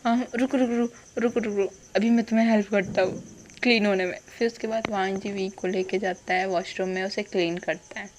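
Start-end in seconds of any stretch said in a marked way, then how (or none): 0.0-4.2 flustered apology. Retold or imitated. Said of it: "वो बोलता है".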